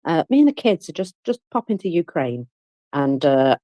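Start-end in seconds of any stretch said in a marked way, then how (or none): 0.0-2.5 pretend wife. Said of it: "putting that out there and saying".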